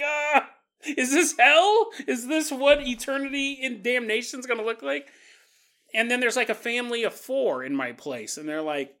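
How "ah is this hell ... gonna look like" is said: higher, hammed-up dismay; comically horrified ghost; mock horror. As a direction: wail as if facing your doom, jokingly. Ghost horrified by a tidy house.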